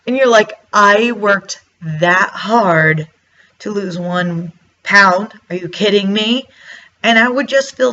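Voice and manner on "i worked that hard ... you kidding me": slow, drawn-out disbelief; very slow, stunned complaint at the scale; exasperated disbelief. Retold or imitated. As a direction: drag it out like you can't believe it. Outraged at losing one pound.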